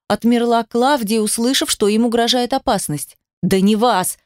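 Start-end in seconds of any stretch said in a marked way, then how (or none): none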